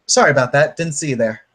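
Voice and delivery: apology in a put-on British accent. Stranger apologising for sitting on him, British accent. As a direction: apologise briskly, playing it British. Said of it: "In a British accent, this person will reply".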